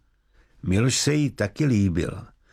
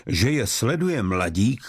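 usual speaking voice

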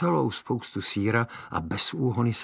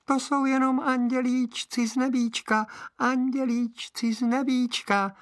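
very high tiny angel voice; tiny high voice pretending to be an angel; thin little voice. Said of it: "odpověděl tenkým hláskem".

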